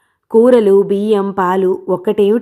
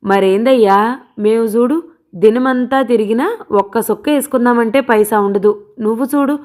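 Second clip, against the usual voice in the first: a mild mocking lilt, pitched up; 3 semitones higher than usual. Dawood taunting Balayya about his drinking, mildly mocking. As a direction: tease him with a sneer in the voice. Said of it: "అన్నాడు హేళనగా".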